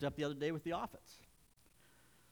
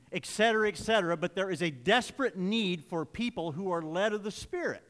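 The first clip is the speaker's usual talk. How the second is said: raised, emphatic pulpit voice; preaching; 5 semitones higher, 9 dB louder than usual. Real, not acted. Preacher teaching scripture to the congregation, preaching forcefully. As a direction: drive each point home with punched key words.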